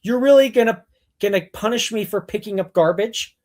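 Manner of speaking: you can't be serious; indignant mock outrage; incredulous. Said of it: "I'm like".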